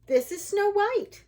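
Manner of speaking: high, loud, excited dwarf voice; loud high-voiced introduction; eager dwarf. A narrator's reading.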